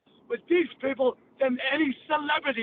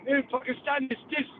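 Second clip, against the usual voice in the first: put-on Pakistani accent. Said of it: "he went like this".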